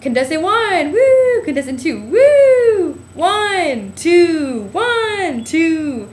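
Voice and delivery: imitating the host's screaming vote, high and loud; crowd screaming vote. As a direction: whip up the crowd with each woo. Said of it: "the screaming thing where it's like".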